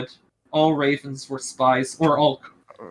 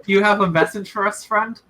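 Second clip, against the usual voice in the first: less condescending; 4 semitones higher than usual. Acted. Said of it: "Little buddy's too condescending. It's like".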